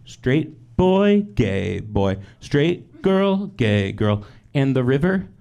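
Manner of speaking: smug mom. Retold or imitated. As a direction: crow over her rivals like a proud mom. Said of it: "She'd just be like".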